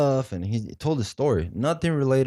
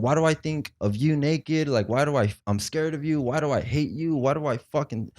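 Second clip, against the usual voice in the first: higher-pitched run of exasperated questions; retold rant; 5 semitones higher than usual. Snapped patient ranting at counselor and therapist, retold with exasperation. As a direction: replay a rant, building to the snap. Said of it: "I go on this rant".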